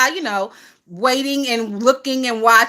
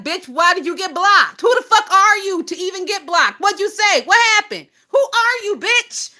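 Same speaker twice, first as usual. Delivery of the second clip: climbing higher with each question, incredulous; mock interrogation; 6 semitones higher than usual. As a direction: grill them, getting more outraged as you go. Acted grilling of a blocked user.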